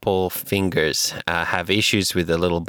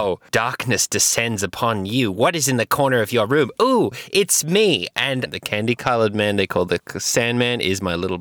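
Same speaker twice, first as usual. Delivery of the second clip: laying a curse. Acted. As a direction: creep in like a nightmare spirit. Spooky threat to sleeping listener.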